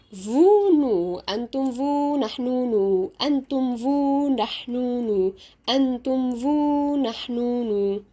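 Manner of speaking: "Vous" and "nous" end on a long oo; silent final S. Shown as a demonstration. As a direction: hold the vowel of "nous" with no s after it. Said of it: "ال S هنطقها ولا لأ؟".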